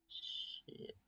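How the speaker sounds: breathy hushed swear; whispered curse. Acted. Carl cursing under his breath at the dark hole.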